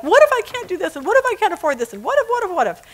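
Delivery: high-pitched mock fretting; hammed-up anxious what-ifs, swooping up; imitated freak-out. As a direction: spiral through the worries like a panicking son. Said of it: "He calls me totally freaking out".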